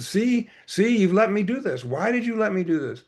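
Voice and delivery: high-pitched, anxious reproach; Baba. Acted. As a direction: blame them in acted-out distress.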